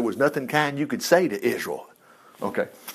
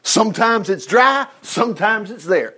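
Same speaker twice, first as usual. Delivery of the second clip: whiny complaint; 4 semitones higher than usual. Retold or imitated. Preacher voicing Jeremiah's sulky complaint to God, whiny. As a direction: grumble at God like a sulky prophet. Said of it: "Jeremiah just said".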